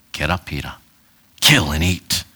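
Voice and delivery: deep, far-off voice from heaven; low, hollow commanding voice; booming divine voice. Shown as a demonstration. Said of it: "Not in that tone".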